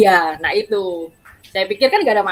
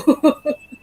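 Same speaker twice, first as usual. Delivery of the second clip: short, higher-pitched real laugh; 8 semitones higher than usual. Real, not acted. Woman admits to interviewer she doesn't know why, laughing. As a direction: laugh it off briefly.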